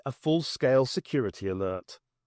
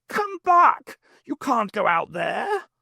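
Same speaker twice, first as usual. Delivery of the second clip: much higher, louder call; shouting; 10 semitones higher, 4 dB louder, slower than usual. Acted. Brigadier calling the Doctor back, shouting. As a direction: yell after him to stop.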